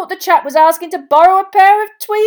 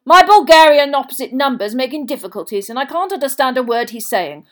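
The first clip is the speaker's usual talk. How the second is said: loud, cheerful and raised in pitch; 6 semitones higher, 13 dB louder than usual. A narrator's reading. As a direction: boom it out like a jolly official. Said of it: "Bagman turned most cheerfully back".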